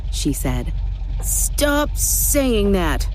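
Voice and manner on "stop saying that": put-on slow, higher child's wail; crying out. A narrator's reading. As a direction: protest like an upset little boy. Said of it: "Gabe cried".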